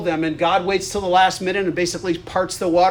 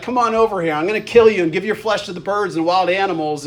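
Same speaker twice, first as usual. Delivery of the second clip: lightly acted taunting threat, pitched up at the start; trash talk. Goliath calling David over for a fight, trash-talking. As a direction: goad the opponent like a mild trash-talker. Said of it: "you notice the trash talking here".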